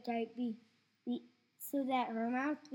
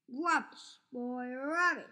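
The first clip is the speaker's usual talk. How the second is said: scornful grandma; 4 dB louder than usual. Acted. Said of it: "she said".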